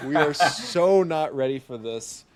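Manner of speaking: dramatic "we're doomed" moan; mock panic. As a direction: ham up the dread at the contest. Repeats the panicked aside.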